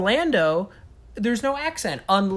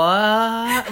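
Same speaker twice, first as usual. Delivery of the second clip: baffled reaction; 4 semitones higher, 3 dB louder than usual. Retold or imitated. Retells own baffled reaction.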